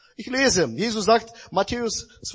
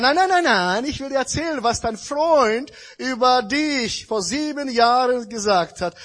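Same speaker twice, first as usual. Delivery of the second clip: eager insisting; 4 semitones higher, 4 dB louder than usual. Retold or imitated. Woman insists on telling gossip.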